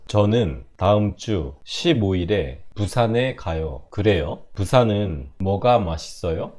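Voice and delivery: measured phrase-by-phrase Korean with pauses; slow shadowing read. Shown as a demonstration. Teacher reads Korean for students to shadow, slowly. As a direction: read slowly, pausing for learners to repeat. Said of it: "ゆっくりいきますよ".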